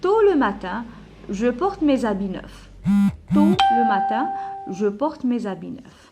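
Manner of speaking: loud, deliberate classroom read-aloud. Shown as a demonstration. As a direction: read it out clearly for the class, phrase by phrase. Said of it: "lis à haute voix".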